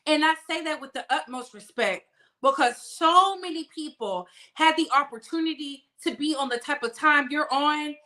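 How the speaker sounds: ordinary talk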